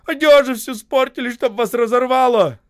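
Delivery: furious high-pitched tirade; angry high voice. A narrator's reading. Осип cursing the crowd, angry high voice. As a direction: scold them loudly in a high, wrathful voice. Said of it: "злым высоким голосом заговорил".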